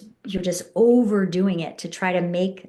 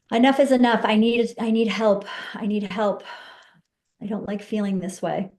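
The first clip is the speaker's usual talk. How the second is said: fed up. Shown as a demonstration. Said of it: "here on your rib cage".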